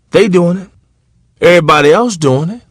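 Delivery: a hammed-up mimic of a child's excuse; mock whiny excuse. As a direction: play the kid's excuse back, mocking it. Parent mocking kid's excuse.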